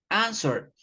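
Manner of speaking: Answer, first syllable stressed. Shown as a demonstration. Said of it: "the stress is in the first".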